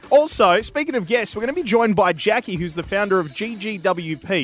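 upbeat, punched show line-up; podcast announcer intro. Real, not acted. Host presenting this week's guest, lively announcer delivery. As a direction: sell the special guest to the listeners.

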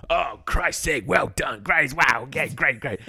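sarcastic TV host rolling his eyes at a guest; presenter fed up with Caitlyn talking over him, mock sarcastic and loud; mock exasperated presenter. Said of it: "Ant and Dec are going like".

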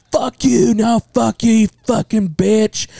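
high-pitched imitation of a couple fighting; mock drunken quarrel.

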